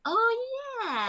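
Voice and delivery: put-on high, startled oh-yeah at hearing the old take; a sudden high gasp of realisation; mock dismay. Actor hearing her forgotten accent played back, high dismay. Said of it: "and I was like".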